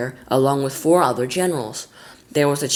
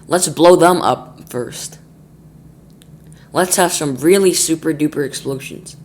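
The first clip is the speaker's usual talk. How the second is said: eager general; 3 semitones higher, 6 dB louder than usual. Acted. Eager general wants explosions.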